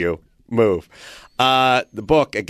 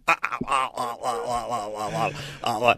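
imitated run of stammered "ah"s; mock a flustered man lost for words; string of stuttered noises, starting softer; speechless sputtering; 7 dB quieter than usual. Imitates manager sputtering after threat.

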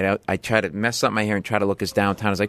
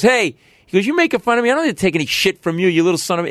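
put-on angry drunk; 7 semitones higher, faster than usual. Bleeding drunk man threatening the comedian. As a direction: snarl it at the comic on stage.

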